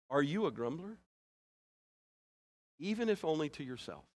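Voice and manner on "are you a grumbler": gentle, with a soft laugh; a tender, teasing question; out of love. Real, not acted. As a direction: ask it kindly, half laughing. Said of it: "I mean this to be out of love".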